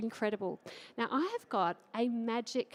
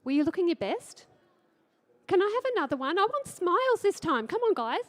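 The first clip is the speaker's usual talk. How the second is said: calling out to crowd; 6 semitones higher, 6 dB louder than usual. Real, not acted. Calling out while taking photo.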